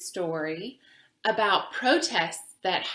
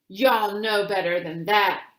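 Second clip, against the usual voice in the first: louder stern scold; 6 dB louder than usual. Acted. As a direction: scold the child, a touch sharp. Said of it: "a white man scolded".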